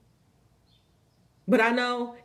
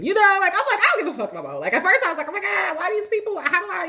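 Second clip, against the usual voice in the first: loud, high, laughing through the words; giggly retelling at full volume; 12 semitones higher, 7 dB louder, faster than usual. Real, not acted.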